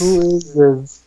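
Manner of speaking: slow, puzzled, rising question; drawn-out surprise. Real, not acted. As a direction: stretch it out in amused disbelief. Reacting to odd chat name.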